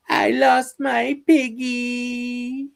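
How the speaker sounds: high, very slow squeaky cartoon line; high slow mock-sad cartoon whine; cartoon character voice. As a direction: stretch it out like a sad little alien kid. Doing Invader Zim character voices.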